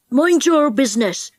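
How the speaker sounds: lightly voiced bully; surly big boy. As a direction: answer back as a big boy. Big boy answers back.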